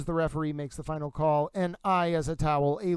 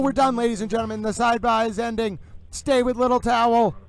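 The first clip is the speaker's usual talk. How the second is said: Howard Cosell sign-off; 4 semitones higher, faster than usual. Acted. Host announces to viewers that the sidebar is over, in an excited broadcaster call. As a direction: sound the big return like a broadcaster. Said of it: "Howard Cosell towel mode".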